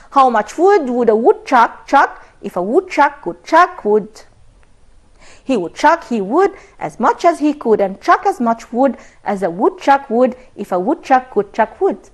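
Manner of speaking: the woodchuck tongue twister read out slowly and clearly. Shown as a demonstration. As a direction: spell out every wood and chuck slowly, for learners to repeat. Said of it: "say it after me".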